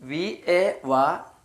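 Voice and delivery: വി എ വാ spelled out slowly; teacher spelling വി എ വാ slowly; slow spelling demo. Shown as a demonstration. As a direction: spell വി എ വാ letter by letter. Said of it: "ഡബ്ല്യു എ വാ".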